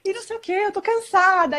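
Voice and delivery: high, laughing mock lament about her day; half-laughing whine of a tired wife; whiny upset complaint. Upset wife complaining to her husband, mock whining. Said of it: "comecei a chorar, tô chateada".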